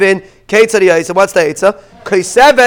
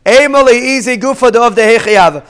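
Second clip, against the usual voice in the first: calming. Retold or imitated. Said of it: "so Mar Ukva says".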